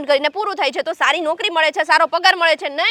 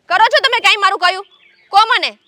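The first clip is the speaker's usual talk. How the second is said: raised-voice demand; loud challenge; 3 semitones higher, 5 dB louder than usual. Acted. Wife loudly challenges husband to name one time. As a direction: press him hard, loudly. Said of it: "આટલું બધું જોરથી બોલવાની જરૂર નથી".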